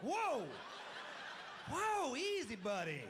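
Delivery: dad's alarmed high holler; startled shout. Retold or imitated. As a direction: yell to stop him in his tracks. Dad reins in son.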